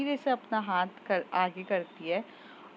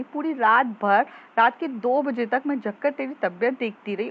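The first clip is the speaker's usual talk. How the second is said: loud, higher angry rant at a selfish friend; angry scolding; 4 semitones higher, 4 dB louder than usual. Acted. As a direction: tell him off hard for leaving you behind. Friend angrily scolding him. (ऊँची आवाज़ में गुस्से से डाँटना)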